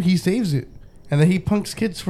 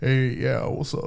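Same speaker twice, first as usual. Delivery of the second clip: deep, raspy kind of voice; 4 semitones lower, 4 dB quieter than usual. A parent imagines how his son will sound after puberty, deep raspy voice. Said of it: "that deep ... Kind of raspy kind of voice".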